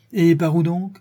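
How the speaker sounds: high-pitched challenging comeback; sharp retort. A narrator's reading. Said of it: "riposta Ganimard".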